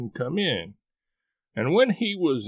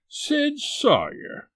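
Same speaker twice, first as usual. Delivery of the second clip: mock joyful greeting; 13 semitones higher, much slower than usual. A narrator's reading. Imitated welcoming call.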